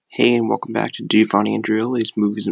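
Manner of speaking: struggling through a retainer; words blurred by a retainer; wearing a retainer. Real, not acted. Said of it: "I can't say it with my".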